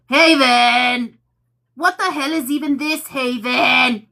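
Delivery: mock exasperated holler; exasperated callout. Retelling a message sent back to Haven, exasperated. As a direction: call the name out loud, drawn out.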